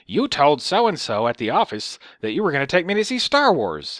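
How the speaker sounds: accusing, reproachful imitation; lecturing. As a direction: imitate an old lady telling someone off. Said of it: "she starts lecturing me".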